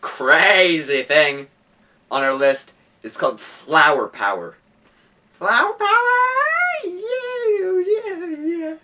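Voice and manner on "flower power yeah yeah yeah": high hype cheer; excited shout. Acted. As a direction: cheer the title.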